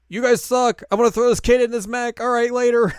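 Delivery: loud, high sneering brush-off; mocking villain sneer. Duke blowing off the heroes, loud high sneer. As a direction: toss the insult off like a bored villain.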